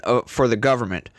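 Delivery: ordinary talk, nothing marked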